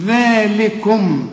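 very slow "ذلكم" with an interdental ذ; careful recitation of "ذلكم"; tongue-out dhal. Shown as a demonstration. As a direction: stretch "ذلكم", tongue between teeth at the start. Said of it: "لازم تطلع لسانك في الذال".

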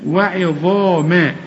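وعظاما slow with a clear ayn; slow tajweed demo. Shown as a demonstration. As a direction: stretch وعظاما, sounding the ayn. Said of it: "شوف العين دي".

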